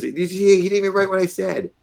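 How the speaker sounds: high, incredulous mock complaint; retold indignation. Steaming general about the captain's notes, retold indignation. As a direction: imitate an affronted superior complaining. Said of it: "I was steaming when he left".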